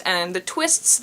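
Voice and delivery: ordinary delivery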